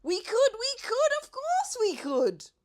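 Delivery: very high, loud eager yell; eager shout. A narrator's reading. The gang shouts eagerly to the Duke. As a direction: shout yes all together. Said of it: "we all shouted".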